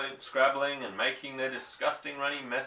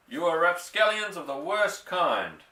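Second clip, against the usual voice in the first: indignant; 5 semitones higher, 4 dB louder than usual. A narrator's reading. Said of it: "shouted Mister Hazel".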